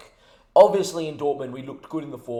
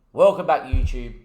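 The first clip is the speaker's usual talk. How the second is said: pissed off; 5 dB louder than usual. Real, not acted. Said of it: "A very pissed off and fucking annoyed".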